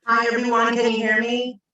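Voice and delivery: echoing like in a big stadium. Real, not acted. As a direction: voice booming around an arena. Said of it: "you sound like you're, you're in a stadium".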